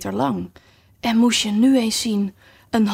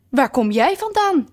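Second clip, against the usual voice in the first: imperious queen; 6 semitones higher than usual. Acted. Red queen confronts Alice.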